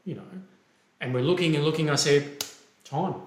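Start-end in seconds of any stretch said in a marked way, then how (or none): 2.8-3.2 a curt, clipped "Time."; abrupt call of time. Shown as a demonstration. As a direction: bark "Time." short and final. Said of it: "I didn't say it like that".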